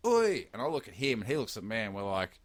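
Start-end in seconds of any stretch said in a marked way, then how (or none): 0.1-0.5 high-pitched call at moderate volume; retold shout. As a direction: act out calling after someone. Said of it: "shouted out as I'm shouting out".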